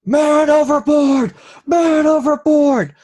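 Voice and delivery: shouted high and loud; man overboard shout. Acted. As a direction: yell the alarm across the deck. GM voices crew shouting alarm.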